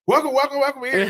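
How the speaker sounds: booming stadium announcer welcome. Retold or imitated. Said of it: "Sound like the P A announcer at a stadium".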